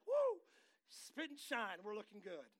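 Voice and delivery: hammed-up celebrating a clean start; mock whoop of joy. Preacher voices proud cleaned-up believer, whooping.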